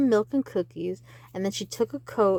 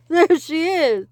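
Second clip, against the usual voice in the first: high loud slower shout; excited shout; 7 semitones higher, 9 dB louder than usual. Acted. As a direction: call it out urgently. Repeat of the cry.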